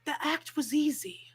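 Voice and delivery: drawn-out, hushed mock whisper; mimicking whisper. Podcaster mocking Cody's "act was easy" line, in a slow whisper. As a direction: whisper it slowly, pausing between words.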